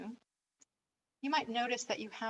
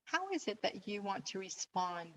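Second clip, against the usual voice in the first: guided meditation; 4 dB quieter than usual. Acted. Coach inviting listeners to reconsider their situation, guided meditation. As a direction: lead them gently through it, leaving space after phrases.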